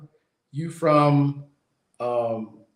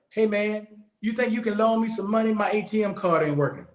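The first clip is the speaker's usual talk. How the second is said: lightly voiced higher-pitched plea; stranger asking favors; 5 semitones higher than usual. Stranger hitting up a traveler for a loan, lightly imitated plea. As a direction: imitate a casual money request, pitched up. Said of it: "they come up to you".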